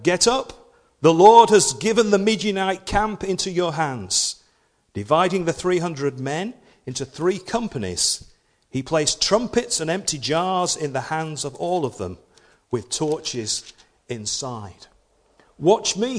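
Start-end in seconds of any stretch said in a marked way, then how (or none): 0.0-4.4 Gideon rouses his camp, loud and high; a loud rallying call to wake sleeping men. A narrator's reading. Gideon wakes the camp of Israel: loud call to arms. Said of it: "and called out". 15.6-16.2 commanding. A narrator's reading. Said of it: "he told them".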